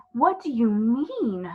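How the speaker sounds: put-on a child suddenly scared; frightened cry. Lucy cries out to the fawn in a frightened girl's voice. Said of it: "cried Lucy, turning very white".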